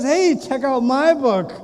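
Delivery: slow, stretched-out proud call; hammed-up "look at me" announcement; triumphant boasting. Man through Judgment Day security showing his book, triumphant.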